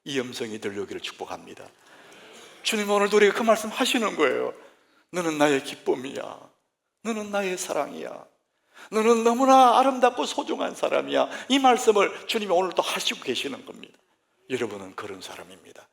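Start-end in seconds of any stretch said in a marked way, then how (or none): 5.1-11.3 rising, swelling to a loud high cry; 점점 고조되어 크게 외치는 선포; building joyful proclamation. Acted. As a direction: build each line louder and higher until the last bursts out. Preacher voices God, building.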